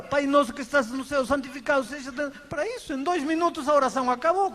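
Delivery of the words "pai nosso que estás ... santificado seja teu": rote prayer. Retold or imitated. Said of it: "se para falar".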